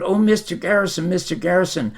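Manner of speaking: quick, high-pitched eager greeting; excited caller. Retold or imitated. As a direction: rush the name like an eager fan. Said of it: "I get all excited".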